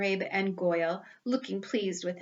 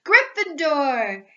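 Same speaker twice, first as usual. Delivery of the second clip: slow, drawn-out, much louder shout; hat shouting; 5 semitones higher, 9 dB louder, much slower than usual. Acted. The Sorting Hat calls Ron's house, shouting slowly. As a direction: ring out the house name. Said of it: "the hat shouted".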